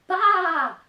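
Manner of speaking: high, loud bleat; loud baa. Acted. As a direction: chase him off bleating. Animals chase farmer away.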